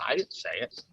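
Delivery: "I" picked out from the rest; stress on I. Shown as a demonstration. Someone pleading innocence, stress on "I". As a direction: lean on "I", then let the rest fall. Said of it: "that means they're just innocent".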